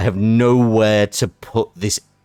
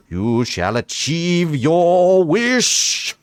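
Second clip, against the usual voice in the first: touch of Brian Blessed. Acted. Knight promises safe passage through the tempest, booming. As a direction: let it swell into a booming stage proclamation. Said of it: "a touch of the Brian Blessed going on here".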